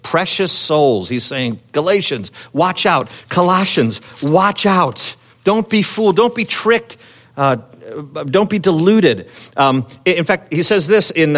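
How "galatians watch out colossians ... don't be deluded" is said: passionate warning. Retold or imitated. Paul warns the churches not to be fooled, urgently and higher. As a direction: plead with them to stay on guard. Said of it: "passionately speaking to protect souls".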